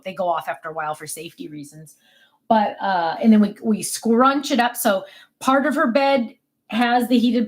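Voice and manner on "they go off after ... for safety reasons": drops to a whisper; hushed safety aside. Real, not acted. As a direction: say it under your breath. Quiet aside about safety.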